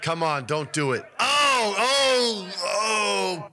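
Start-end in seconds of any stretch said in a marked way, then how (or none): 1.2-3.5 loud, high wincing oh; pained groan. Real, not acted. Watching the nut shot on the clip, loud pained oh. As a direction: wince out loud at the hit.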